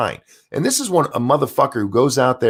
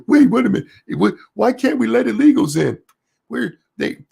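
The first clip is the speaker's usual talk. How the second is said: shrill high mock panic, louder at the start; mock outraged liberal; 12 semitones higher, 3 dB louder than usual. Mocking people mad about the immigration halt, high hammed-up outrage. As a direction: parody a flustered protester, pitched way up.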